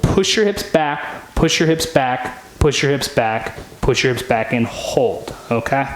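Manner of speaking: strained voice holding a deep squat. Real, not acted. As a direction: talk while held low in a squat. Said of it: "Holding your squat".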